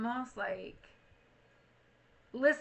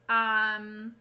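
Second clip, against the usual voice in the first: ordinary talk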